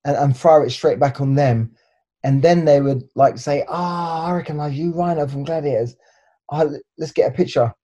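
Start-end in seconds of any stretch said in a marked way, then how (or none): 3.7-7.7 starstruck cop. Retold or imitated. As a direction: play an officer suddenly recognising a TV star. Imitates police recognising him, turning friendly.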